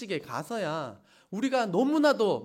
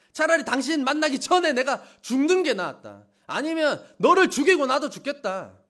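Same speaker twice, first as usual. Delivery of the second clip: mock bitter reproach; 4 semitones higher, 4 dB louder than usual. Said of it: "원망한 내용입니다".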